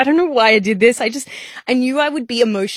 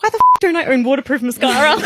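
laughing; 6 semitones higher than usual. Real, not acted. Laughing at missing mascara.

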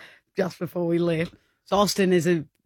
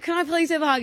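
high pleading ask; high mock-pleading voice; 9 semitones higher, faster than usual. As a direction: beg sweetly for a hug. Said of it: "I was like".

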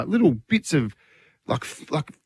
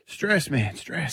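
quiet; 6 dB quieter, much slower than usual. Real, not acted.

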